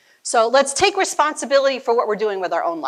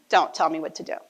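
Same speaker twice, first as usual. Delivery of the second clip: put-on rebellious teen; 6 semitones lower, faster than usual. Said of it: "This is the spirit of rebellion".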